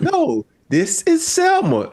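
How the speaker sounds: slow, high actress voice; slow, high, insisting gently; imitating Selma Hayek.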